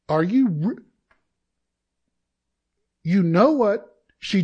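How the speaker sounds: slow, loud and outraged; mock-indignant complaint to God. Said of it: "I'm like".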